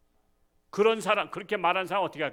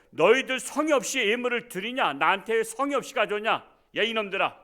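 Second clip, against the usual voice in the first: raised, scolding dictator; mock scolding; 5 semitones higher, 4 dB louder than usual. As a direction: berate the underlings from above. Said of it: "김정은이가 그 부하들을 놓고".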